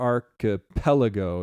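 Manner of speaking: archipelago with stress on third syllable pel. Responding to a comment on pronunciation: archipelago stressed on third syllable. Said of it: "it's the third syllable. So archipelago, that's stressed, not the fourth".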